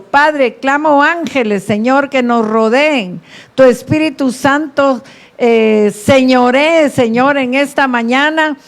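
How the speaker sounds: earnest public prayer in an unbroken, urgent stream; fervent prayer. Real, not acted. Pastor leading the church in prayer before the message, fervent prayer. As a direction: pray aloud with conviction, settling into the closing amens.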